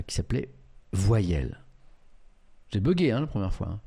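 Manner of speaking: ordinary talk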